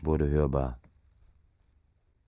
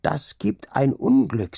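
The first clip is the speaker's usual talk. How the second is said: ominous warning; 9 semitones higher, 3 dB louder, slower than usual. Acted. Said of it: "sagte er".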